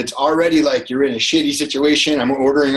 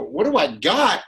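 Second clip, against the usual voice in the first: slow, disbelieving echo; incredulous; 5 semitones higher, slower than usual. Retold or imitated. Driver echoing the beggar, slow and incredulous. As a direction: repeat it back in disbelief.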